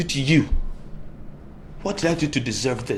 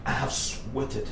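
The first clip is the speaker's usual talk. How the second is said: slow, aggrieved plea; 3 semitones higher, much slower than usual. Acted. Son pleading slowly.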